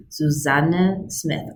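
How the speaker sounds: "Susanna" slowly, emphasis on the middle syllable; slow demo of "Susanna", second syllable stressed. Shown as a demonstration. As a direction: show the stress in "Susanna": su-SAN-na. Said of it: "I put an emphasis on the second".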